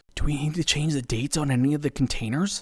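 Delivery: whispering. Reading a story aloud, a character asks about containers: whispering. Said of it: "Steve leans over and whispers".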